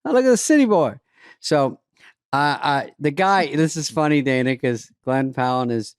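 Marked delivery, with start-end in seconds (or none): 0.0-1.0 high, loud mock hick taunt; taunting local. Small-town locals jeering at a city boy. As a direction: jeer like a small-town bully. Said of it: "that's how a fight starts with me".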